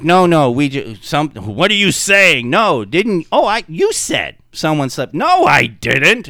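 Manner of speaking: a mild hint of panicky guilty denial; flustered denial. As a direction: trip over words denying it. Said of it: "And it was like".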